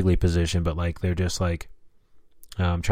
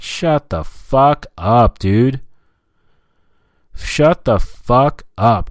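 very slow, higher-pitched, punched-out demand; exasperated; 4 semitones higher, 4 dB louder, much slower than usual. Acted. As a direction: hit each word slowly, fed up. Exasperated at the phone talker.

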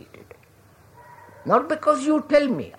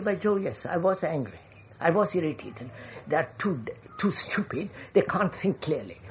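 low, much softer aside to oneself; private admission; 5 semitones lower, 9 dB quieter than usual. Acted. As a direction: own up quietly, as if thinking aloud. Acted private admission to himself.

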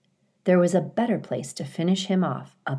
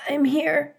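faint, high whispered reply; weak whisper; 10 semitones higher than usual. Acted. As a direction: barely get the words out. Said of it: "said a weak voice".

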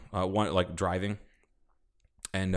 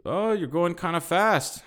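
higher, slow, mild scolding ranger; imitating the ranger; 10 semitones higher, 4 dB louder, slower than usual. Ranger stopping the speeding truck, mild slow scolding. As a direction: gently warn like a patient elder.

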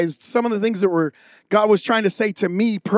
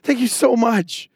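grateful wife; 4 semitones higher than usual. Retold or imitated. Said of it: "She's like".

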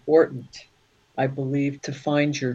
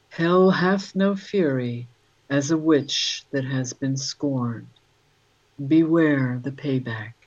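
haiku reading. Acted. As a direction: read it like a warning verse. Reads a haiku.

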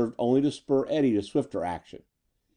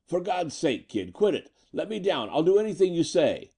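pleading yell; 7 semitones higher than usual. A narrator's reading. Captured gangster begging to be let down, yelling in high pitch. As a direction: beg for release in a raised, strained pitch. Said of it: "Cadorna yelled anew as the clamps tightened".

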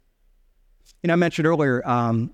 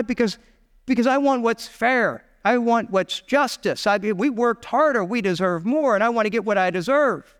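mildly indignant, higher-pitched self-justification; aggrieved insistence; 5 semitones higher than usual. Acted. Crowd demanding what they deserve, lightly acted indignation. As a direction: press your case like a slighted worker.

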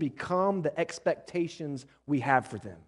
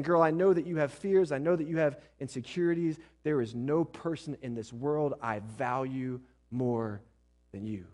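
tender reassurance. Retold or imitated. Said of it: "He's saying".

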